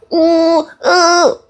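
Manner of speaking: 높게 끌어올린 아이의 칭얼거림 흉내; 말 못하는 아이가 우는 듯 낑낑대는 소리; 아이 칭얼대는 소리 흉내. Retold or imitated. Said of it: "어떤 피드백". (높은 음으로 아이 울먹임 흉내)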